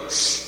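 a short shh for a poem; poem read down the phone as a hush; mock hush over the phone. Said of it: "And you go".

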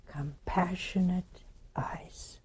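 soft and hushed, full of awe; tender whisper. Real, not acted. Preacher describes Jesus's loving eyes, whispered. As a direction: breathe the words out in a whisper.

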